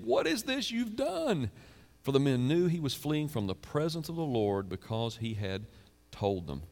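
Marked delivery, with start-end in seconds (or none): 0.0-1.5 terrified sailors. Acted. Sailors terrified, questioning Jonah.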